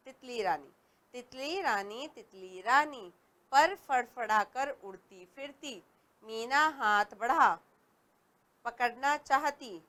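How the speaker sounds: put-on slow sing-song reading of a kids' poem; poem recital. Shown as a demonstration. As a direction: recite it gently for young pupils. Reads a children's poem.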